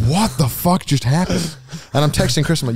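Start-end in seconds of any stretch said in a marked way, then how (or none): 0.1-1.6 mock baffled. Retold bafflement.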